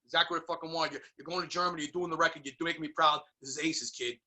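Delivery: lightly imitated Italian-American patter; a hint of proud Italian-American manager; Italian-American impression. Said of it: "doing his, uh, you know, Italian".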